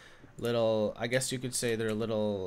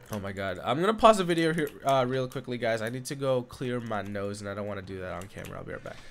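nasal voice; 3 semitones lower, faster than usual. Real, not acted. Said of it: "hate having to talk with, like, a nasally voice".

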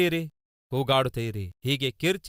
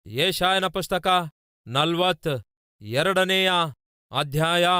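very slow, with pauses between the words; dictation-pace scripture citation; slow, deliberate repeat; slower than usual. Real, not acted. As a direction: announce the reference slowly so listeners can find it. Reference repeated slowly for listeners.

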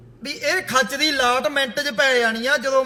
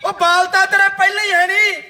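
laughing mockery; 4 semitones higher than usual. Real, not acted. Mocking his hair on repeat.

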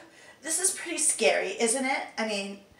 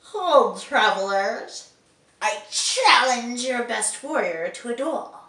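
booming knight challenge; 7 dB louder than usual. Acted. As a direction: bellow it across the field. Voice actor trying line takes.

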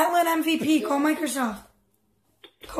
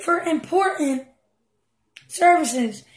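lightly voiced customer support recording; mock support recording; slower than usual. Imitating the Microsoft support line for the troll, lightly mock recording. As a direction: read it like a bored hold message. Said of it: "They would say".

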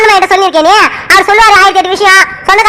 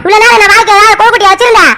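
angry scolding. Acted. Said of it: "ஏமா இவ்வளவு சத்தமா பேசுற?".

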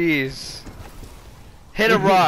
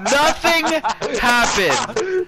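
frustrated shout, much higher and louder; raging gamer; 6 semitones higher, 4 dB louder than usual. Real, not acted. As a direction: yell at the unfair game. Gamer dies for no reason.

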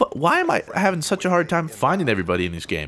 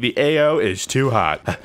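soldier calling over the radio; mock military radio call. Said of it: "I repeat".

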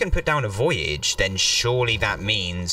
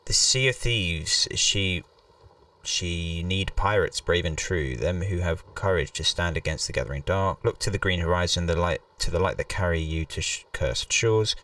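dramatic reading; 4 semitones lower than usual. Acted. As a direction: read it like an ominous legend. Reads game text dramatically.

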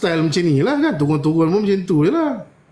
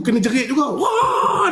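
laughing; 10 semitones higher, slower than usual. Real, not acted. Laughing at the scream story.

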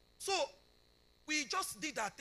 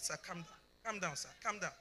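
soothing; 3 semitones lower, 5 dB quieter than usual. Retold or imitated. Mother soothing the angry surgeon.

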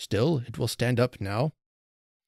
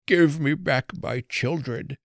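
moaning plea; 4 semitones higher than usual. A narrator's reading. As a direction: moan it hopelessly, beaten down. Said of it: "only moaned in answer".

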